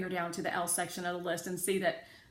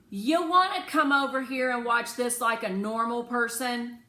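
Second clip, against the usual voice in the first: irritated father; 6 semitones higher, 9 dB louder than usual. A narrator's reading. Father snaps at daughter.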